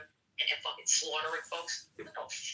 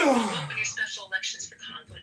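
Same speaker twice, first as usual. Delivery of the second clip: raised voice, urging; loud; 3 semitones higher, 5 dB louder than usual. Real, not acted. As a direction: call it out to the crowd. Urging people to vote.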